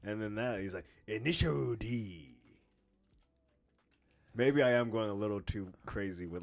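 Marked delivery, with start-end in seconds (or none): 1.1-2.4 slow, exaggerated Japanese-accented title; mock Japanese accent. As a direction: stretch it out in a hammed-up Japanese accent. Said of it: "the Japanese accent".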